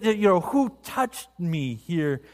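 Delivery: slow, scornful echo of who touched me here; mocking echo. Disciples mocking Jesus's question, slow and scornful. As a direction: repeat his words back with irritation. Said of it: "the disciples are kinda irritated".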